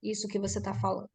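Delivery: demonstrated empathetic lead-in, measured pace; understated conciliatory tone; acknowledging, then questioning. Shown as a demonstration. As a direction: acolher first, then ease into the question. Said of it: "primeiro você acolhe".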